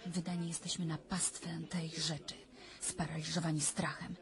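soft whisper, frozen with fear; hushed fearful whisper; terrified whisper. Acted. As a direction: whisper it, paralysed by dread. Recounting a terrifying nightmare.

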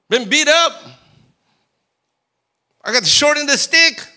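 high, loud bitter complaint to God; angry complaint. Retold or imitated. Frustrated believer complaining to God about his life, loud bitter whine. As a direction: rail at God like you've been cheated. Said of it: "And you're like".

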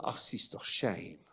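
whispered pitying "ach, sister, shame"; lightly voiced clucking sympathy; a hint of a pitying church lady; mock pity. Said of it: "That is not a".

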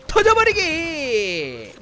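very drawn-out, high attack shout; battle cry. Real, not acted. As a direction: stretch the attack call out long. Calls out his attack.

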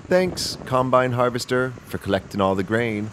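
a chirpy little machine saying thanks; tractor voice. Acted. Tractor thanking the combine harvester, high and cheery. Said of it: "it says".

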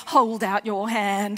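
slow menacing command; stern order. Retold or imitated. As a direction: make the trembling kid hold out a hand. Teacher orders the caning.

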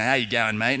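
casual broad Aussie talk; broad Australian accent. Shown as a demonstration. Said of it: "you have that Australian accent".

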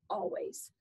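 soft tender whisper. Acted. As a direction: whisper it lovingly. Tender answer to one more hug.

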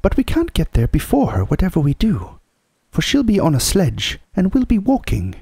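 high-pitched practical housewife; Missus Beaver, matter-of-fact. Acted. Mrs Beaver reasoning about the sledge, unflustered.

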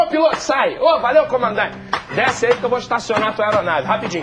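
shouting valet. Retold or imitated. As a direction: bark at the pilot like a parking guy. Airport parking attendant calling out.

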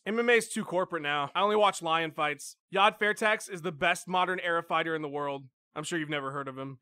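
low, soft hipster voice; aloof hipster fan. Acted. Hipster sneering at mainstream fight fans, aloof and quiet. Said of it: "There are the hipsters".

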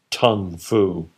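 plain reading voice

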